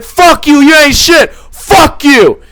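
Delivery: hammed-up belligerent yelling; imitated angry shouting. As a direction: shout it as the raging man. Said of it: "It's like".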